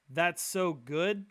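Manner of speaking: drawn-out slow question, rising at the end; slow quizzing question. Retold or imitated. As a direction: stretch "That's so good" slowly, like a test question. Guy quizzing God on slang.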